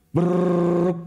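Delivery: rolled lips brrr like a burst of fire; imitated machine-gun burst. Telling the podcast host about the shootout, imitated burst of gunfire. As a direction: spit out a quick rattling gun burst.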